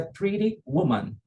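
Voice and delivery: "Pretty" said "priri", American tapped T. Shown as a demonstration. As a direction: soften the double T of "Pretty" to a flap. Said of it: "não se escreve com R". ("Pretty" com os dois T soando como R)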